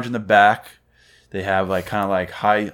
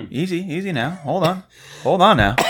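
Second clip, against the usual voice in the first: high-pitched mock calming of a cougher; mock soothing; 9 semitones higher than usual. Host to coughing co-host, mock soothing. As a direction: play at settling someone down, pitched high.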